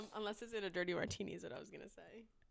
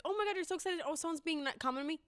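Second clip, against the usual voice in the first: gushing mock voice; 6 semitones higher, faster than usual. Mocking gushing stranger.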